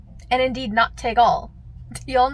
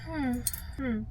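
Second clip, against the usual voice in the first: mock hesitant driver on radio; 4 semitones higher, 3 dB louder than usual. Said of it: "He's like".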